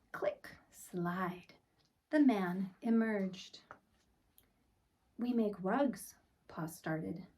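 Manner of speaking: put-on gentle read-aloud for children; storybook narration. A narrator's reading. Teacher reading a picture book to the class, storybook voice. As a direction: tell it like bedtime story time.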